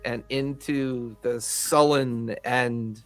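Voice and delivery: game master's scene setting. Acted. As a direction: set a grim scene, lingering on key words.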